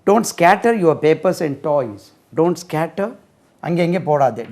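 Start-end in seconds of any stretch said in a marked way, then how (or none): 0.1-3.2 slow, clear model sentence. Shown as a demonstration. Teacher modelling slowly for students to repeat. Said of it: "model sentence".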